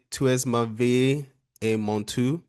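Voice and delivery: slow, careful attempt at a French accent. Shown as a demonstration. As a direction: recite it slowly in an amateur French accent. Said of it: "That's my French accent".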